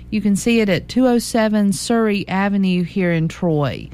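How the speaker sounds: slow, even radio listing read; classified ad read. Acted. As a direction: read out each item and phone number slowly and clearly. Reads the Tell and Sell listings.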